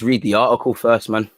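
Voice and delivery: slipping by accident into a Mancunian-sounding accent; accidental Mancunian-like accent. Real, not acted. Host about to read the article, accent slipping towards Mancunian. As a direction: let a stray northern English accent creep in. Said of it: "I don't know what accent that was".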